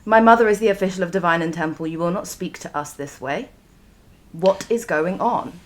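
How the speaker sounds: acting composure after crying; mildly indignant, in-character demand; steeling herself. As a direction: pull rank while holding back tears. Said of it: "she tries to steel herself 'cause she's been bawling".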